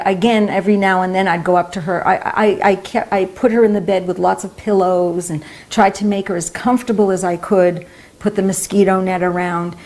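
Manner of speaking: normal talking voice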